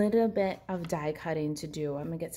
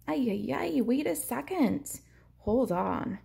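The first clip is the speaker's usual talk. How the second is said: higher, flustered oh-no cry; playful dismay at a forgotten piece; flustered exclamation; 7 semitones higher, slower than usual. Real, not acted. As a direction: catch yourself mid-project, higher and flustered. Realizes forgotten tag.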